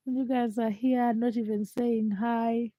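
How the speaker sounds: croaky sick voice; hoarse from a chest infection. Real, not acted. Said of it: "My voice is deep. I sound like a frog".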